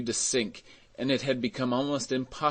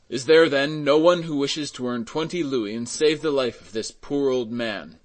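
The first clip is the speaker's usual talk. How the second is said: raised, higher voice calling out; urgent appeal; 4 semitones higher, 6 dB louder than usual. A narrator's reading. Mayor begging someone to save the man, urgent appeal. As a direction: appeal to the whole crowd.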